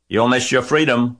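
high, loud honked warning; goose honking. A narrator's reading. Goose warns Wilbur against captivity, honking. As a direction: honk it out after him. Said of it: "honked the goose".

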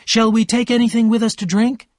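calling down. A narrator's reading. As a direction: call out to those downstairs. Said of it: "Daisy called down".

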